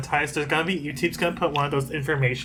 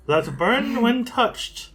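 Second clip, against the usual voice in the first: slow, pitched-up nervous read; anxious; 7 semitones higher, much slower than usual. Acted. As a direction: let the nerves creep into it. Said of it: "this is me getting anxious for Mikkel".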